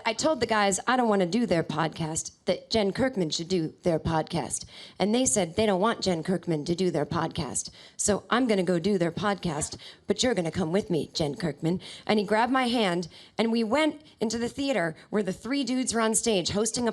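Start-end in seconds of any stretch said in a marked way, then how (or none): 0.0-11.8 lightly voiced low impression; a singer. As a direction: keep it low, hinting at the star's voice. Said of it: "and he said".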